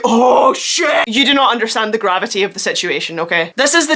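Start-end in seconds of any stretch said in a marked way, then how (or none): 0.0-1.1 sudden alarmed oh shit. Retold or imitated. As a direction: react as if danger is near. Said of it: "you aren't like".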